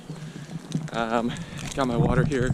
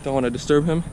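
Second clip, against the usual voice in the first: while running. Real, not acted. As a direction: narrate while jogging, pushing breath. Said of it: "just hit the ten mile mark".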